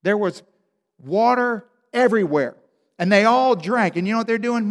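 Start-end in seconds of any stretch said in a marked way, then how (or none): none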